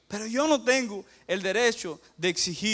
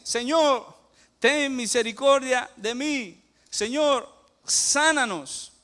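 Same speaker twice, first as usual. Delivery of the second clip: raised, higher pleading cry; lepers crying out; 4 semitones higher, 3 dB louder, slower than usual. Acted. Lepers crying out to the Lord for healing, loud pleading. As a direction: call out to the Lord for mercy, begging. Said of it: "ellos ahora gritan y dicen".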